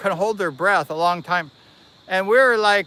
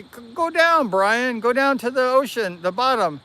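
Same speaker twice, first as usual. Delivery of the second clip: higher-pitched call to dive down; egging him on in a raised pitch; urging; 5 semitones higher than usual. Retold or imitated. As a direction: imitate someone urging a friend on, pitched up. Quotes guys urging him to dive.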